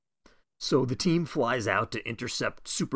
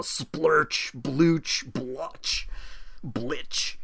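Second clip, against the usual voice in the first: comic sound effects; 3 semitones higher, much slower than usual. Shown as a demonstration. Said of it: "Don Martin strip of onomatopoeias".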